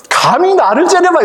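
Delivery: high-pitched, playful outrage; mock indignation. Runner protests at glaring ducks, mock indignation. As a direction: act affronted, voice shooting up high.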